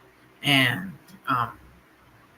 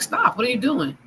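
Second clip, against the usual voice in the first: high sharp shout of Stop, then a mock yell; yelling at him to stop, pitched well up; retold yell; 7 semitones higher than usual. Telling her partner to stop pouring cleaner into the food, shouted high. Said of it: "I yelled at him".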